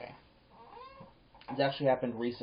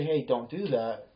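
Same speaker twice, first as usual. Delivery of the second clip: calm; slower than usual. Retold or imitated. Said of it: "I calmly say".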